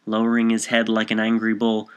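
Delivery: plain reading voice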